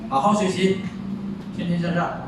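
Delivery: 好好学习 run together fast, tones merging; quick delivery. Shown as a demonstration. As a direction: rattle off 好好学习 at speaking speed. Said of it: "但是你一快".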